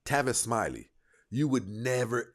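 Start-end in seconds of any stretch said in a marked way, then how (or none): none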